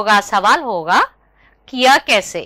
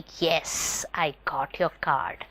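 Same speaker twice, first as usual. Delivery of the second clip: put-on kids party magician; 6 semitones lower, 11 dB quieter, much slower than usual. Magician finds the card.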